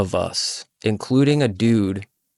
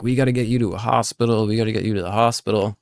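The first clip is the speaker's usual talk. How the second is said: fast, urgent repeated urging; much faster than usual. Retold or imitated. Friend rushing the injured teller to the hospital. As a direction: hurry him to the hospital.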